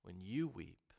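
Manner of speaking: hushed. Acted. Hushed repeat of climax line.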